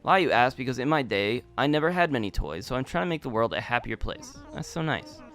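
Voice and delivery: lightly voiced kindly old mayor; a hint of a creaky old tortoise; old man voice.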